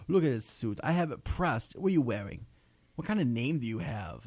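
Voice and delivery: a light Italian gangster voice; Italian mobster accent. Retold or imitated. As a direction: show off the suit like a wise guy. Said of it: "That's the worst Italian accent ever".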